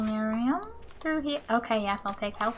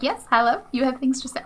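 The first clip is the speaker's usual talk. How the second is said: mock excited greeting; 2 semitones higher, 6 dB louder, faster than usual. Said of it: "I got excited".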